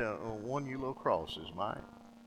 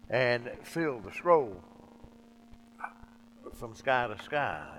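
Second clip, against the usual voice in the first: poem recitation. Acted. Recites hymn verse slowly.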